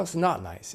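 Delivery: "not" pitched high and stressed. Shown as a demonstration. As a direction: lift the word "not" up. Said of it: "when you cross it out".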